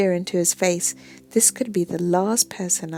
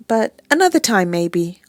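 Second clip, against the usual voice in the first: quickly; 7 dB louder than usual. Acted. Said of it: "I say quickly".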